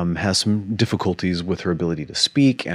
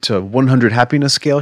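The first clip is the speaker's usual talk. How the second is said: amazed disbelief; 6 semitones higher, 8 dB louder than usual. Retold or imitated. Retold amazed question to wife.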